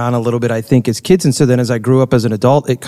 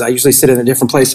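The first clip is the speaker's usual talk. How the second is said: ordinary talk, nothing marked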